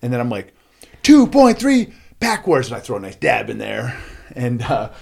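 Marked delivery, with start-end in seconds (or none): 1.0-2.7 loud, high, drawn-out boast; slow, showy victory call; triumphant announcement. Retold or imitated. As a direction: proclaim it like a champion's record time. Announces his record to stunned crowd.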